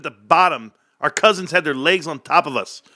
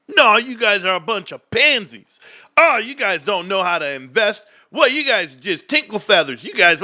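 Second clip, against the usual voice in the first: raised-pitch imitation of a scornful rant; mock taunting; 5 semitones higher than usual. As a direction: jeer at the group as the troll would. Mimics Bryce insulting the chat.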